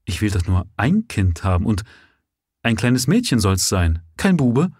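taken aback, she protests a little; surprised. Acted. Lady refusing the boys, mildly surprised. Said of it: "sprach sie verwundert".

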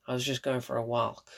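"walk" with an audible L, imitating the actor; pronounced L. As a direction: mimic him sounding the L in "walk". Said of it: "with the L pronounced".

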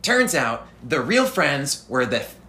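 lightly voiced anime hero; hint of an eager anime hero; anime adventurer voice. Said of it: "Anime adventurer".

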